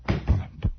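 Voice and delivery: low, drawn-out "blump"; imitated tail thump. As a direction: thud it out deep like a heavy tail. Imitating the tail's thumping sound.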